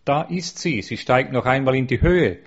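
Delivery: put-on understated childlike cry, lifted in pitch; child's excited cry. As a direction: call out like a thrilled child, without a real scream. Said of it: "begann das Kind von neuem zu schreien".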